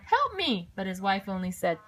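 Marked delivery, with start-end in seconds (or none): 0.0-0.7 high pleading cry; crying for help. A narrator's reading. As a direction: wail it out. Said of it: "ran home and cried".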